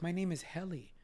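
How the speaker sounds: lightly imitated British woman; a touch of British lady; British accent. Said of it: "in her British accent".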